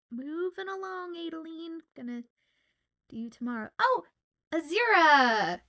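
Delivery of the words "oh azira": loud, drawn-out "Azira!"; delighted shout of a friend's name; excited call-out. Real, not acted. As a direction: call the name out happily, stretching it. Spots a viewer and calls out.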